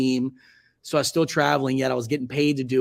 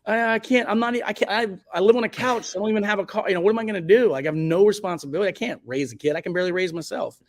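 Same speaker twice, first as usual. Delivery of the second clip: panicked inner voice; 7 semitones higher than usual. Retold or imitated. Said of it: "you have those thoughts of, like".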